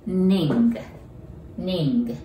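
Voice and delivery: "ning" with the tongue pressed up on the n; n sound demo. Shown as a demonstration. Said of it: "舌を上につけて".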